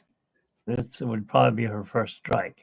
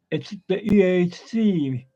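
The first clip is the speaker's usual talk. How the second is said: higher Australian-accented turtle, E A C stretched out; Crush; 5 semitones higher, slower than usual. Shown as a demonstration. Trying Crush's catchphrase, Australian accent on "E A C". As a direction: attempt a down-under accent on "E A C". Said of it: "accent from down under".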